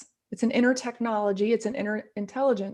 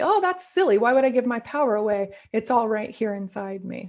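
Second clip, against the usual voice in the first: scoffing dismissal. Retold or imitated. Speaker voicing people who scoff at giving power away, with an amused scoff. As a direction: brush it off as obviously silly.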